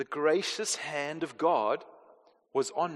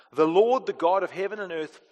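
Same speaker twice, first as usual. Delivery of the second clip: grandeur. Shown as a demonstration. Preacher reminding congregation who is calling them, grand proclamation. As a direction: proclaim THE LORD strongly, then ease off. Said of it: "just the grandeur of who is calling us".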